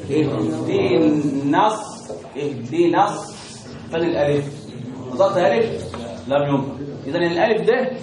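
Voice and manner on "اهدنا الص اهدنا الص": اهدنا linked to الص with a short final na; dropped alif. Shown as a demonstration. Teacher demonstrating connected recitation, dropped alif. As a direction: join اهدنا straight into the s, no long a. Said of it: "هي سيسقط".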